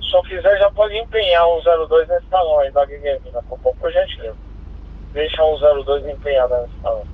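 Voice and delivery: crackly two-way radio transmission; squelchy handheld radio; police radio. Real, not acted. Patrol reports over radio.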